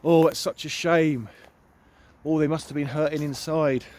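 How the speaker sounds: imitating people's stock sympathy; onlookers' pity. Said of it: "we often hear".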